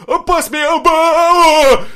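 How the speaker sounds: ба-о with a glottal stop, slow, high, loud; mock Cockney, dropping the t in ба-о; Cockney accent. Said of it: "И тут".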